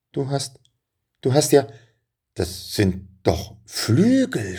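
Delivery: put-on high, awed stammer of a boy seeing wings; amazed. A narrator's reading. Boy stunned to see the dragon's wings, amazed. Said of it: "staunte Benjamin".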